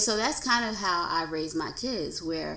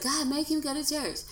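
pleading, higher demand to God; a pushy little prayer, pitched up; 8 semitones higher than usual. Retold or imitated. Wife praying her husband into church, higher and insistent. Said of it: "I'd be like".

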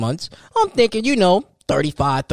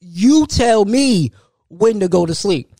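high, slow disbelieving question; can't believe what you're hearing; incredulous; 7 semitones higher, 3 dB louder, much slower than usual. Retold or imitated. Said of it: "I ain't used to that".

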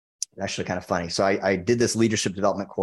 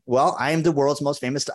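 sales pitch; 6 semitones higher than usual. Retold or imitated. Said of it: "I changed my pitch every time".

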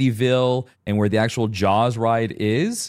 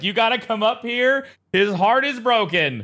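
excited; 14 semitones higher than usual. Retold or imitated. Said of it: "I was like".

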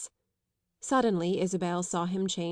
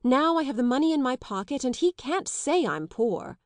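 raised, louder and defiant; defiant exclamation; 5 semitones higher, 4 dB louder than usual. Acted. Young man defies the lady over his money, defiantly. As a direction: throw it back at her, chin up. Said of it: "the young man exclaimed defiantly".

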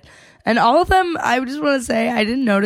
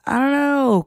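higher-pitched imitation British accent; attempted British accent; 6 semitones higher than usual. The speaker answering Jess's accusation, in an imitated British accent. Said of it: "are my accents good".

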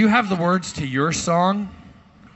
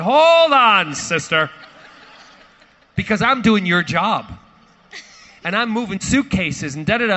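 louder, higher telling-off; grumpy snap; 5 semitones higher, 6 dB louder than usual. Retold or imitated. Snapping back at the rear flight attendant, loud and grumpy. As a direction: put the flight attendant in her place. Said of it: "Grumpy, five o'clock in the morning".

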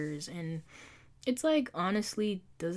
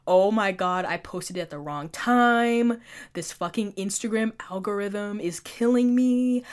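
pissed-off rant; 2 semitones higher, 5 dB louder than usual. Retold or imitated. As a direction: replay a loud, irritated complaint on the subway. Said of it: "but I was pissed".

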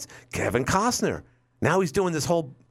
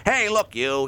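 put-on old-movie tough guy; 4 semitones higher, slower than usual. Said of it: "they had their own way of talking".

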